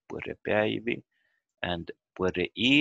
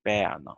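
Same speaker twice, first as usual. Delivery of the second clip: "Bäna" stressed at the start, falling away; stress on first syllable. Shown as a demonstration. Teacher repeats the correct form, "Bäna" with first-syllable stress. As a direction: lean on the opening syllable of "Bäna". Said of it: "The stress in the start".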